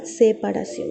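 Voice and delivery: "Separación" stressed with a falling close; firm "Separación" with a falling tune; emphasis. Shown as a demonstration. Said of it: "Está en rojo". ("Separación" con énfasis y tono descendente)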